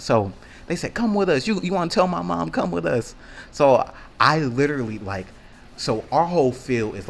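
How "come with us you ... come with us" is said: mocking girls. Girls leading him to mom.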